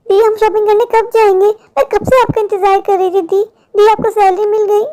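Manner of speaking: lightly voiced eager little girl; little sister voice. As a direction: ask like an impatient child. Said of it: "Pinky मुझसे सवाल पूछेगी".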